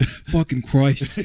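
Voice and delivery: put-on slow, weary Boston cop accent. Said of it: "like a detective from, like, Boston".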